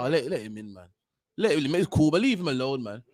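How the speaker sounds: a low, soft, easygoing "let him in"; mock forgiving voice. Voicing forgiving black people, low and easygoing.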